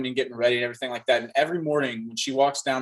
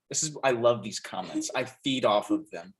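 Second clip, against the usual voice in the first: low, softer mock gloating; gloating Santa; 4 semitones lower, 4 dB quieter than usual. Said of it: "And I'll be like".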